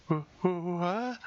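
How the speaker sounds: stammering, pitch shooting up high; startled high-pitched what; flustered shock. Acted. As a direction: sputter in disbelief. Flustered at unexpected remark.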